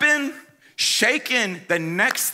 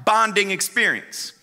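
eager Tyler; 5 semitones higher than usual. Retold or imitated. Friend Tyler pitching a dumb idea, high and eager. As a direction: sell the idea with goofy excitement. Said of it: "he goes".

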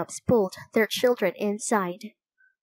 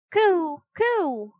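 high, louder dove call; loud cooing; 8 semitones higher than usual. A narrator's reading. Teddy tries dove language on the raven: loud coo. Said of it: "Teddy said loudly".

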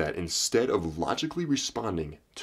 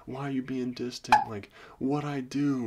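needy whiny guy; 6 semitones higher than usual. Retold or imitated. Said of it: "They'll be like".

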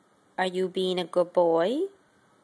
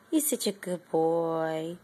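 tender praise; 5 semitones lower, 4 dB quieter, slower than usual. Real, not acted. Praising the pet.

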